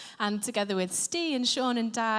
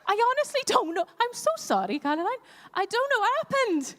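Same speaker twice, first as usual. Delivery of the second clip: laughing apology; 8 semitones higher, 3 dB louder, faster than usual. Real, not acted. Laughing apology after Welsh slip.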